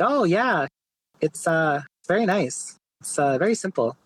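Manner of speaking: casual mock Quebecois accent. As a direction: retell it with a hint of a Quebecois accent. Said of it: "he has a really thick Quebecois, like, accent".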